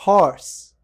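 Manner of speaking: "Horse." said loud and slow in English; "Horse." spelt out in the best way to read it; English word shown. Shown as a demonstration. Teacher reads the card aloud, loud "Horse.". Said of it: "melhor maneira de ler isso aqui".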